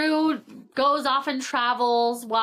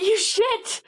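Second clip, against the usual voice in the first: drawn-out, higher-pitched playful scolding; mock outrage; 10 semitones higher, 3 dB louder than usual. Reader reacting to the hero's sneaky secret, mock-outraged. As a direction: scold him in amused disbelief.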